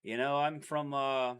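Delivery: put-on Aussie accent, friendly greeting; hamming up a laid-back Australian; mock Australian accent. Boyfriend taking an accent challenge, hamming up an Australian accent. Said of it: "from Australia".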